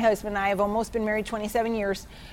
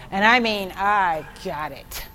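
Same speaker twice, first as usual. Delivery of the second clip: ordinary talk, nothing marked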